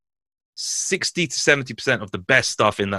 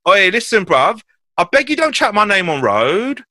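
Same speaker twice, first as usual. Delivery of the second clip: put-on higher, louder, slow London rude girl warning; hammed-up road girl telling him off; rude girl on the phone; 10 semitones higher, 4 dB louder than usual. Rude girl from his ends warning Hugo, hammed-up and louder.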